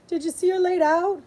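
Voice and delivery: put-on eager, rising child's question; excited. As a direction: ask it with curious excitement. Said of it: "she asked excitedly".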